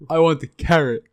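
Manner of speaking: put-on high, loud happy kid choosing the carrot; child's voice. Child picking a carrot over a pea, in a high excited voice. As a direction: chirp it like a pleased little kid.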